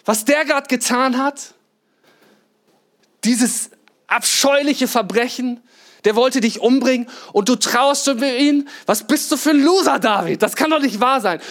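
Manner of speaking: can't believe what David does; outraged disbelief. Retold or imitated. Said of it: "habe ich gedacht".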